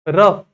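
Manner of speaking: रफ short and loud, quick "uh"; quick model of रफ as "ruf"; fast vowel. Shown as a demonstration. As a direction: punch out रफ with hardly any vowel. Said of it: "एकदम fast forward होतोय".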